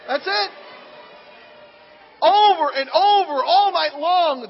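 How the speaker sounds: loud, slow, mock annoyed; annoyed emphasis. Shown as a demonstration. Preacher complains about the congregation's crying noise. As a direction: hammer the endless whining. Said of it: "it's just annoying me here".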